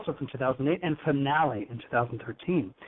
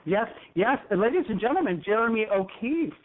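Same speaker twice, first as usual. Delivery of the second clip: higher-pitched show host introduction; announcer introduction; 6 semitones higher than usual. Real, not acted. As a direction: present the guest to a studio audience. Host introduces guest to audience applause.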